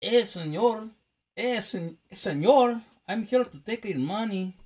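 hammed-up old western Mexican accent; imitating a spaghetti western bandit, Mexican accent; mock Mexican accent. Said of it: "how do those old movies go?".

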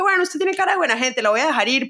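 a hint of a patronizing official; condescending officer. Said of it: "El señor como que".

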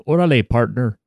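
Órale in Spanish, partner with a Texan twang; Tex-Mex accent. Pretend. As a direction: mix Mexican and Texan. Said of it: "a Tex-Mex accent would be like".

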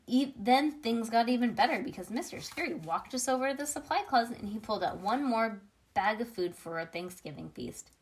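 ordinary delivery, nothing marked

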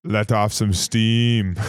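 very slow, drawn-out movie quote; action-hero line. Retold or imitated. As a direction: deliver a one-liner, stretching every word.

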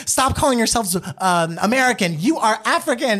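high-pitched imitation of scolding; mild mock yelling. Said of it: "yelling at the Black girls".

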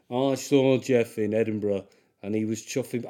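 lightly attempted Sheffield actor voice; Sean Bean. Rereading the review on request as a half-hearted Sean Bean. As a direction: try a hint of the actor's northern voice. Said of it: "Do a Sean Bean voice".

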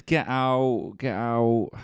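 loud urgent calls; hammed-up frantic yelling; crystal maze shouting. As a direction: hurry the contestant out. Crystal maze end countdown shouting.

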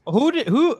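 high, incredulous who; can't believe it, pitch shooting up. Real, not acted. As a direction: friend asks who, high and disbelieving. Incredulous questioning.

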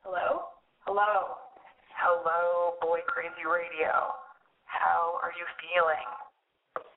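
amplified megaphone hello; testing a bullhorn, slowly; through a bullhorn. Real, not acted. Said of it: "here's what I sound like on the bullhorn".

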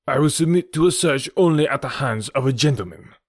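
the Count standing on his honour; indignant Count. Acted. Count refuses his accuser's search, indignant.

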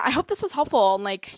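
slightly winded, out of breath. Real, not acted. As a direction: talk as if short of air. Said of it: "I'm, like, out of breath".

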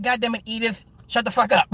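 mock Archie bark. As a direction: snap at Edith like Archie Bunker. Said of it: "I'm like".

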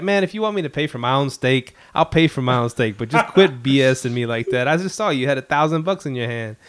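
hammed-up indignant complaint; mock exasperation. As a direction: imitate a fed-up buddy arguing. Acts friend's exasperated disbelief at loss.

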